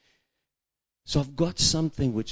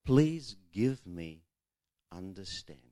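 gentle plea; 2 semitones lower, slower than usual. Shown as a demonstration. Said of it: "say to one another".

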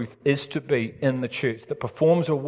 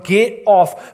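parent yelling; 6 semitones higher, 6 dB louder than usual. Retold or imitated. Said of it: "the parent's going".

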